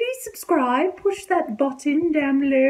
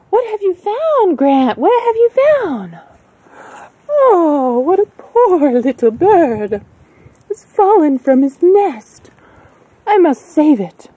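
excited, dramatic; 6 dB louder than usual. Acted. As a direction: play it big, like a stage heroine. Acted scene finding a bird.

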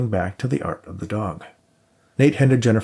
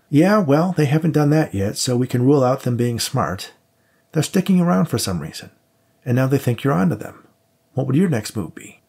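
higher pitched, pressing partner; insistent cop partner; 5 semitones higher than usual. Acted. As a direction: push the point, worried and urgent. Max voiced, pressing his case.

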